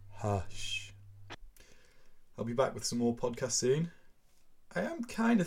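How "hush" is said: unvoiced, soft final shush; closing whisper. A narrator's reading. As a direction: end the story on a hush. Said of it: "closing whisper".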